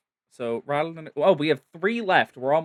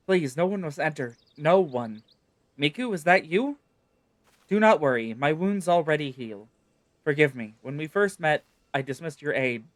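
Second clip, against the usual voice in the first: lightly voiced, earnest hidden girl; faint pleading girl. Sylvie begging Miku from inside the tent, mildly voiced. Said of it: "her voice faint".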